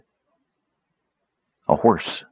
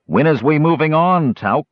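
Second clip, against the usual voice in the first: rough brigand voice; 7 semitones higher, 3 dB louder than usual. A narrator's reading. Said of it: "said one of the men".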